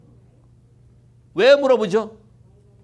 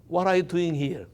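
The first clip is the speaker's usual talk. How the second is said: softer, hushed question; very quiet voice; 3 semitones lower, 5 dB quieter, much slower than usual. Shown as a demonstration. God asking Elijah in the cave, very quietly. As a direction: ask it gently, almost under the breath. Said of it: "아주 조용한 목소리로".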